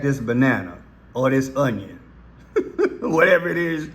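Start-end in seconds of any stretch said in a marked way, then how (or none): 2.5-3.9 chuckling through the words; laughing. Real, not acted. Host jokes about peeling the onion, laughing through it. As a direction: laugh while you say it.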